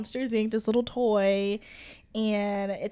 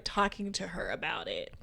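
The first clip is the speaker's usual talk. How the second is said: whispering; 4 semitones lower, 8 dB quieter than usual. Real, not acted. Whispered aside.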